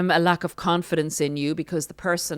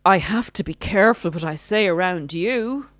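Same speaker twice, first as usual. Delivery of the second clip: mock narcissist; 3 semitones higher, 5 dB louder than usual. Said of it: "come with a criticism".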